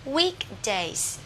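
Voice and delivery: "Weekdays" with a long ee in week. Shown as a demonstration. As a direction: model "Weekdays" carefully, vowel held. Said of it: "nó sẽ là y dài". (đọc "Weekdays" với i dài)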